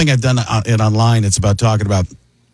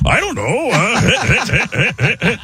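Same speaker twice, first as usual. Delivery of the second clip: higher, raspy Rogen laugh-talk; Seth Rogen; 8 semitones higher, much slower than usual. Retold or imitated. Comic morphing voices, higher Seth Rogen. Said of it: "it becomes Seth Rogen".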